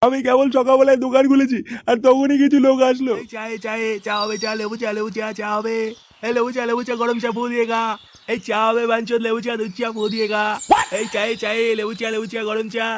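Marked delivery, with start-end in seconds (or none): 3.2-12.9 sing-song street vendor cry for tea; tea hawker's call. Acted. Shopkeeper hawking tea to passersby, sing-song vendor call.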